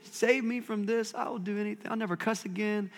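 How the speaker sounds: hammed-up foxhole prayer; a lightly voiced desperate promise; mock desperate prayer. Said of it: "We're like".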